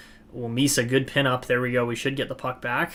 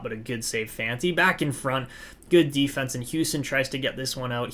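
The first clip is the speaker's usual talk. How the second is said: lively hockey play-by-play call; sports commentator narrating the rush. Acted. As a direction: call the action as it happens. Live play-by-play of the game.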